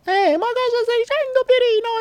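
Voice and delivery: high, cracked granny voice; self-admittedly clumsy old lady voice; old woman voice. Acted. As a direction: play an old grandmother badly. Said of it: "Io non so fare la voce da vecchio".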